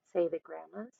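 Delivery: usual speaking voice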